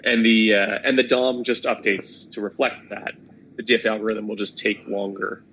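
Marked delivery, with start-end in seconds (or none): 0.1-3.1 hoarse, strained voice; losing voice. Real, not acted. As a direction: voice giving out mid-sentence. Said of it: "I'm losing my voice here".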